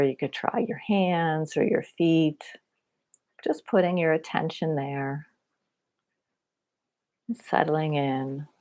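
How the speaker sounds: unhurried body-scan guidance with long pauses; guided meditation. Real, not acted. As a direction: guide them gently through a body scan.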